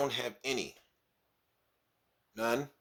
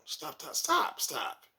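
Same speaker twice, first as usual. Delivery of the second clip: mimicking girl; much slower than usual. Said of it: "girl giggling refusal".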